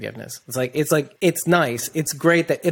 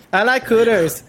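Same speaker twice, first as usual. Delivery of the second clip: high, louder, giggling through it; laughing misquote; 9 semitones higher, 5 dB louder than usual. Retold or imitated. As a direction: crack up while saying it. Joking misquote of a meme.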